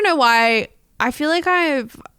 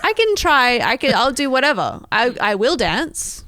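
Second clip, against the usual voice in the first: higher, hurried backtracking, settling as it goes; eager to oblige; 4 semitones higher, 3 dB louder than usual. Retold or imitated. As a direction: imitate yourself gamely agreeing at an audition. Retold eager answer at audition.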